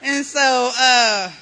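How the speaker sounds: loud, high, laughing through it; giddy laughing high; laughing delight. Retold or imitated. Woman enjoying first high, loud laughing delight. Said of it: "But then I got happy".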